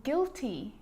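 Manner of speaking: "guilty" as GIL-tee, no U sound; careful slow "guilty" as an example word; silent U. Shown as a demonstration. Teacher showing common silent U words, slow careful model. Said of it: "the letter U can also be silent".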